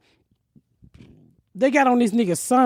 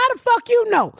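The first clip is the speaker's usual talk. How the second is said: mock indignant shout; 10 semitones higher than usual. Retold outburst at police.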